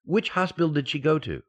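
loud, fast, urgent phone questions; frantic. Acted. Husband on the phone to the maid, loud, fast and frantic. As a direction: rush the questions in a panic.

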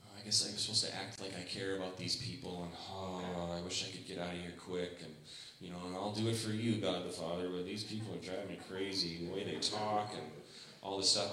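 quiet, put-upon mock complaint; begrudging grumble. Preacher mocks a begrudging Jesus at the party, quiet grumble. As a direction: sigh it out like a reluctant martyr. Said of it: "the begrudging, like".

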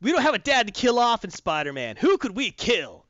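mild J J impression. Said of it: "But J J said".

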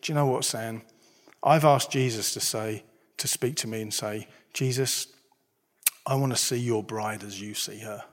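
softly retold friend's confession; quiet, tender quoted words; gentle. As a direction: speak low and gently, as a friend confiding. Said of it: "he just gently said".

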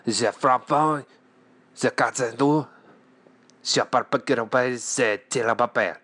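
gibberish mock French accent; fake French. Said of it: "my fake French".

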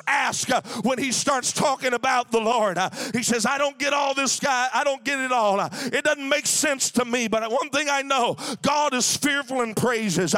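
fervent preacher at full voice; preaching. Acted. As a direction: drive the question home to the church. Preaching with music behind.

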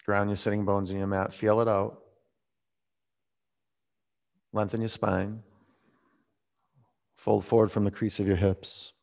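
soft, spaced-out yoga cues; softly spoken, unhurried pose instructions. Real, not acted. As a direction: guide the class quietly, with long pauses. Leads yoga poses.

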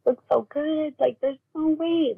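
high, tearful retelling of grieving grandparents; a touch of retold crying, pitched high; retold sobbing. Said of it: "sobbing, crying".

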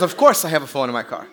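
lightly attempted British accent; a hint of badly faked British. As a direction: play the Rolls driver with a slight British accent. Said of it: "probably the worst accent ever".

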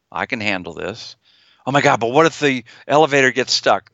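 a mild rising worry; feared voice. Shown as a demonstration. Therapist acting the anxious patient in the elevator, mild worry. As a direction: let the fear creep back in. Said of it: "my feared, feared voice is gonna come up".

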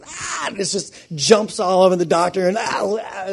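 high, mock panting "ah"; imitated excited dog. Preacher acting out dog greeting its doctor, excited. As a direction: blurt out an eager dog's noise.

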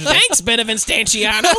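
put-on high comic Greek accent; mock Greek accent. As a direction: overdo the fake Greek accent. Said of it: "might be a little over the edge".

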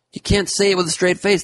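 can't believe it; high incredulous. Acted. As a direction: pitch it high in disbelief. Laughing disbelief.

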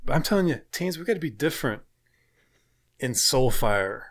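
put-on rally the teens like a corny youth pastor. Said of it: "Please use the youth pastor voice".

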